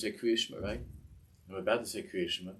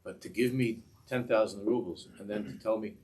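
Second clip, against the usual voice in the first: bitter outburst; 2 semitones higher, 4 dB louder than usual. Retold or imitated. Bitter complaint to God.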